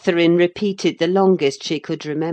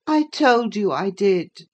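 1 impatient invalid; 5 semitones higher, 4 dB louder than usual. A narrator's reading. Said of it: "he replied impatiently".

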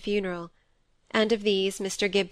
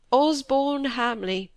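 tender grief; 5 semitones higher, slower than usual. A narrator's reading. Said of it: "squire dwells on name".

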